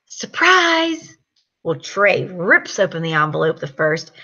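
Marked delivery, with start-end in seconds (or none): 0.1-1.2 mild surprise call. Retold or imitated. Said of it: "And I said".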